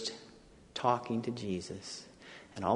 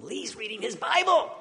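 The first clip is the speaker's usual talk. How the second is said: higher, laughing disbelief; dad's laughing surprised report; amazed dad; 9 semitones higher than usual. Retold or imitated. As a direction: tell it in happy shock. Dad tells mom in disbelief.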